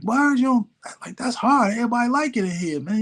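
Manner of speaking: put-on high, fast, hyped-up young voice; imitating his eager young self, quick and high; cocky excitement. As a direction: brag like a kid showing off his track. Young self bragging to mentor.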